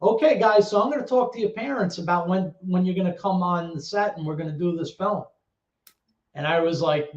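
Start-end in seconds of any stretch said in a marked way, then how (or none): 0.0-5.2 imitating a casual, offhand announcement; retold breezy matter-of-fact address; nonchalant. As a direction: toss off big news as if routine.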